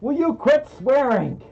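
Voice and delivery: high, exaggerated mock scolding; jaw-moving puppet talk. Streamer scolding co-host for swearing, high mock reprimand. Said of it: "I have to talk like that".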